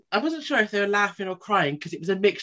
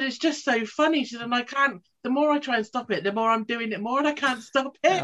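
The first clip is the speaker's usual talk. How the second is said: half-laughing confession; 7 semitones higher than usual. Retold or imitated.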